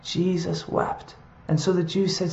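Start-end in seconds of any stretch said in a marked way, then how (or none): 0.0-1.1 hushed solemn. Shown as a demonstration. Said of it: "Verse thirty-five".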